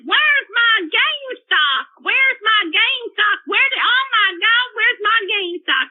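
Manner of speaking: mock screaming fit, drawn out but not truly screamed; retold raging. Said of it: "he starts raging".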